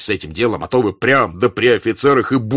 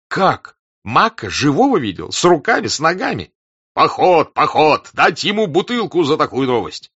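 high, loud, astonished exclamations; raised, rapturous reaction to news; excited uproar; 8 semitones higher, 6 dB louder than usual. A narrator's reading. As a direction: cry out in amazed delight. Officers react to startling war news.

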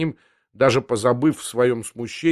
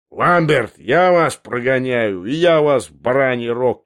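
raised voice throwing the threat back; shouted echo; 4 dB louder, slower than usual. Acted. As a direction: shout it back in drawn-out words. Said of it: "крикнул Андреев".

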